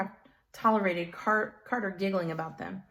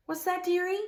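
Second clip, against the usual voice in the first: put-on high, lilting little old lady; sweet old woman; 11 semitones higher than usual. A narrator's reading. Miss Zaluski asking Carter, high sweet granny voice. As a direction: ask it like a doting granny.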